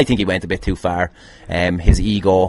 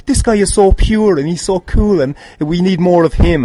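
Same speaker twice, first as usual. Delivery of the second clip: much higher, mock adoring fan voice; hammed-up, higher, louder fan worship; gushing fan; 11 semitones higher, 5 dB louder than usual. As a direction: gush like a starstruck fan online. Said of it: "I sometimes see people saying".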